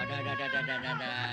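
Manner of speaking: very high sing-song dah dah; baby talk. Acted. Soothing a crying baby.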